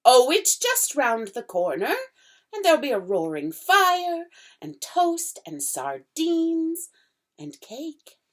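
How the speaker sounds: fawn's voice, eagerly tempting; coaxing fawn. Acted. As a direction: tempt her with treats. Fawn voice held.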